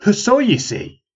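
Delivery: high, slow mocking echo; old man mimicking the woman; mocking repeat. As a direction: drag out her words to mock her. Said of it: "he repeated".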